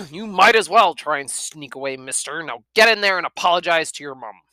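loud, stern dad; father sends son to apologise, loud. A narrator's reading. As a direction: order him off to his mum. Father orders Jack.

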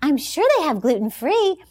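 lightly imitated South African accent; a hint of South African in the voice. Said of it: "in her little South African accent".

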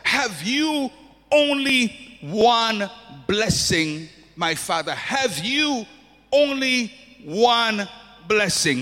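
slow, pleading Esau crying out to his father; anguished plea. Retold or imitated. Son begging his father for a blessing, anguished plea. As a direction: draw out only one, begging. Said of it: "he cries out".

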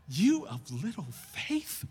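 slow, questioning repeat with rising end; incredulous echo. Retold or imitated. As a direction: repeat it as if unable to believe it. Repeats the quote in disbelief.

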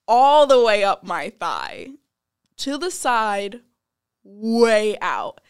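loud, slowed, stunned telling; loud shocked. Retold or imitated. Telling a friend about her dislocated knee, loud and shocked. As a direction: push it out loud and slow, still stunned.

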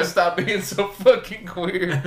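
slow, laughing dad yell; laughing quote. Retold or imitated. Retelling the dad in the film, slow laughing. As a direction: drag out the dad's line through laughter. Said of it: "And I go".

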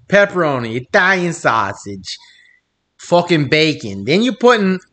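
a hint of mock Italian accent; half-Southern, badly faked Italian accent. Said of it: "your Italian accent is the worst".

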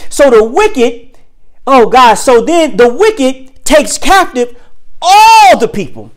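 each phrase slow and weighty, lifting on all the people; slow emphatic preaching. Acted. Preacher driving home the verse, slow and weighty. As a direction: lean into every word like a pulpit.

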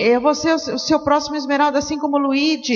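mock excited gushing. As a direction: gush like a thrilled partner, hammed up. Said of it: "me escreviam no WhatsApp".

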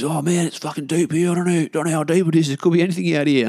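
nervy, high retold fretting; freaking out. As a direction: imitate a mate starting to panic. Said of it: "started freaking out a little bit".

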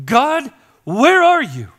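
a loud, high, slow cry to God; anguished cry. Acted. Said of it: "this stirring where he's saying".

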